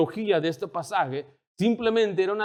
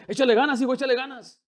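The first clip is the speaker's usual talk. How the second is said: mock pastor cheering; 8 semitones higher, faster than usual. Pastor voiced cheering a volunteer.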